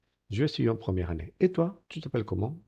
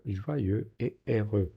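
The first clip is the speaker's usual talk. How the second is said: very slow model; much slower than usual. Shown as a demonstration. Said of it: "model eu words".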